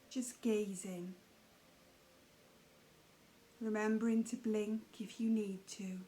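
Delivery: calm, unhurried meditation guiding with long pauses; guided meditation. Acted. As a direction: guide the listener gently into noticing the breath.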